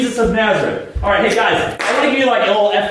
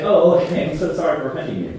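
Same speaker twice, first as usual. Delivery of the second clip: mock meek apology; 2 semitones lower, faster than usual. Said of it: "you say".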